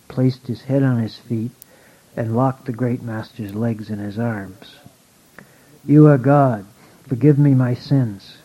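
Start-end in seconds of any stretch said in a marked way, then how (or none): 5.8-8.4 understated, emphatic plea; begging. A narrator's reading. Drunken peasant begs the master for forgiveness, pleading. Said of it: "he begged".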